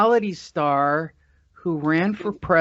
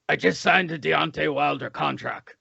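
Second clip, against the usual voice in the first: Deontay Wilder gruff voice. Retold or imitated. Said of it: "Doesn't he have that, like, gruff voice?".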